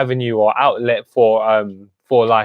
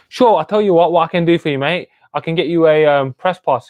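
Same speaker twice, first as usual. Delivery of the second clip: higher-pitched, lightly imitated Cockney promoter; Dave O'Donnell's Cockney; 5 semitones higher, 3 dB louder than usual. Promoter offers an old training mate a press pass, lightly imitated Cockney. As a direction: open high in a retold Cockney patter. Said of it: "in his Cockney accent, I'm sure".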